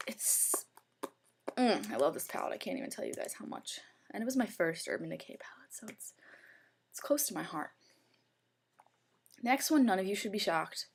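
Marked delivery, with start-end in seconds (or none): 2.5-7.7 whisper. Real, not acted. Fond confession about first palette.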